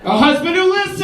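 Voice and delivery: high, wistful woman's voice; mock dreamy wife. Wife naming her real fantasy to the crowd, high and dreamy. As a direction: sigh it like a wife's dream.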